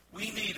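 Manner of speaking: "need" pushed out loud; stress on need. Real, not acted. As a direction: lean hard on the word "need". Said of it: "I want to emphasize that word need".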